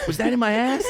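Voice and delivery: high, laughing disbelief; laughing question. Retold or imitated. Comic asking friend Kevin, laughing in disbelief. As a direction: ask it while losing it to laughter. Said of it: "I go".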